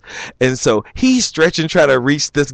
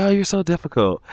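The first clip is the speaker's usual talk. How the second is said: exasperated; 6 semitones higher, 4 dB quieter, faster than usual. Retold or imitated. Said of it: "He's like".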